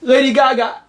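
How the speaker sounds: high, hammed-up tearful mother; weepy mother. Mother introducing the prince's lost sister, hammed-up tearful. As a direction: announce it through fake tears. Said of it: "the mom goes".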